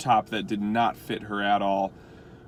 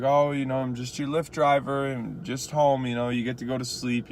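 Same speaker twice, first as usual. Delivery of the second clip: joking; 4 semitones higher than usual. Retold or imitated. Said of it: "trying to be funny about it".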